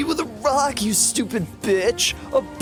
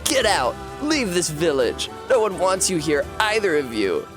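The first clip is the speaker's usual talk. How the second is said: raised angry shout; angry boy; 5 semitones higher than usual. A narrator's reading. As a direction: drive them out with a yell.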